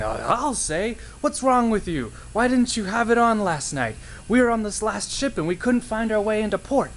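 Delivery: high, loud scolding sailor voice; angry sailor. Acted. Sailor scolding Karen for the dark lighthouse, high angry voice. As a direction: scold her like a furious sailor who nearly wrecked.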